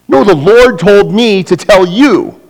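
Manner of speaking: high and loud, bossing Dennis; pushy know-it-all. Acted. Churchgoer pressing Dennis to go to Sardis, high and bossy. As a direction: lean in and tell him what God said.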